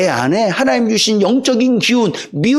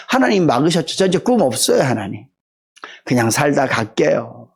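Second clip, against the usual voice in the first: resigned Moses. Acted. Moses voiced giving up to God.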